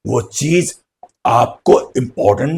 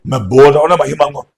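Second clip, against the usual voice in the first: insisting; faster than usual. Retold or imitated. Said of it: "जिद करना होता है क्या?".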